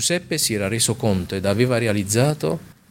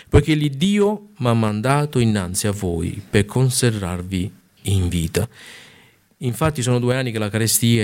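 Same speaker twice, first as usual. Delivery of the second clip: raised, declaiming Bible reading; scripture reading; 2 semitones higher than usual. Acted. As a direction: read the passage out with solemn weight. Pastor reads Genesi 45 aloud.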